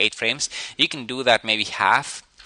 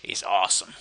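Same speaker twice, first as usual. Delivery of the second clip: imitating a dopey character; 2 semitones lower, 3 dB quieter than usual. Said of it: "So he's like".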